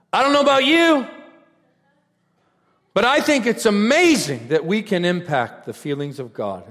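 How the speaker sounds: high, loud declaration easing toward the end; retold crowd address. Preacher answering a doubting crowd, shouted declaration easing off. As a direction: shout the opening, then settle as it goes. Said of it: "So I said to the crowd".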